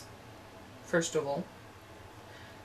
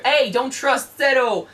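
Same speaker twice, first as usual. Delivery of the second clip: raised, slow mock yell at a commander; higher-pitched warning shout, half in earnest; mock scream; 6 semitones higher, 4 dB louder, slower than usual. Subordinate warns commander mid-battle, mock screaming. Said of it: "to start screaming at your commander".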